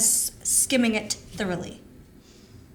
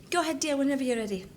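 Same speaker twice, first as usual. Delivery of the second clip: creepy sweet voice; faster than usual. Acted. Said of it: "You're starting to freak me out".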